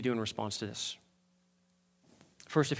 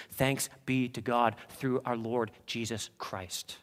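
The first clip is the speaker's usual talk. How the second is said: reverent, slow and soft; 3 semitones lower, 6 dB quieter, slower than usual. Retold or imitated. Reverent answer after lament.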